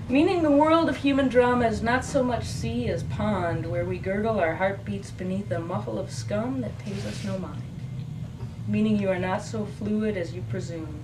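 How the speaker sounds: measured verse, falling at line ends; poem reading. Acted. Poet reading Testimony after its epigraph, measured recital. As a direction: recite it phrase by phrase to an audience.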